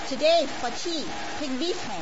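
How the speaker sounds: put-on mild foreign-accented mother-in-law; broken English. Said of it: "with her broken English".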